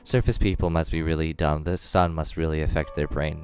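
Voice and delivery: low, even muttering to himself; lightly voiced grumbling drow. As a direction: grumble privately about people, pitched a little down.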